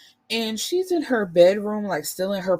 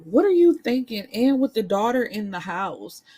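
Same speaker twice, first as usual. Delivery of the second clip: higher and louder, calling him out; exasperated shout; 4 semitones higher, 5 dB louder than usual. Retold or imitated. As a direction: throw the question at him in disbelief. Narrator shouting at boyfriend's choice.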